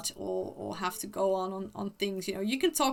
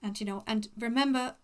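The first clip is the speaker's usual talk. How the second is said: posh voice. Pretend. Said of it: "making me use my most posh voice".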